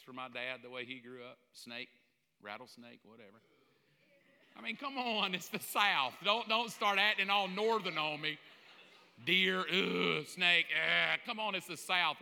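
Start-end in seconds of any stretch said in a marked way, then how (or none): 4.6-12.2 loud, teasing call to the crowd; mock-stern loud rebuke; playful loud scolding. Real, not acted. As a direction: jokingly chide them, full voice.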